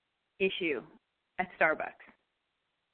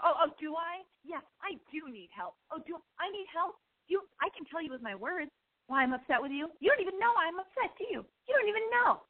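mock sarcastic retort; 9 semitones higher than usual.

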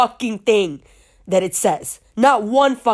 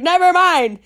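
upset brush-off; 7 semitones higher, 3 dB louder than usual. Retold or imitated. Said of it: "And I started crying".

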